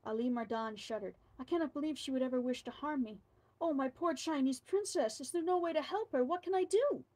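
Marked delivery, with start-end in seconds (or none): 1.4-7.0 building from plain to higher, louder anguish; anguished plea. Acted. Governor pleading to save his wife, building anguish. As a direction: let the despair climb line by line.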